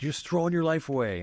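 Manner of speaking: a father scolding a rebellious son; imitating furious dad. Father scolding his son, mock exasperated. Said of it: "And he was just furious".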